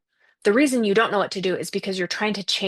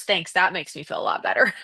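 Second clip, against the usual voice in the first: deadpan mock gratitude; a lightly voiced sarcastic reply to a platitude; sarcastic thanks. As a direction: thank them, clearly not meaning it. Sarcastic reply to could be worse.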